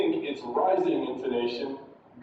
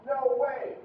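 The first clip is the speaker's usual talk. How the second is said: "No way!" high from start to finish; high intonation; 9 semitones higher than usual. Shown as a demonstration. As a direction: keep both words of "No way!" high. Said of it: "Starts high".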